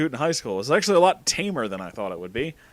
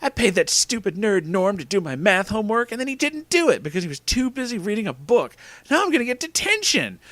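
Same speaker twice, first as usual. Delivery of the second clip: high whiny complaint, climbing in pitch; mock scream; 8 semitones higher than usual. A narrator's reading. Girlfriend ranting about detention, high mock scream. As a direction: rant higher and higher without real volume. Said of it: "Tana screamed".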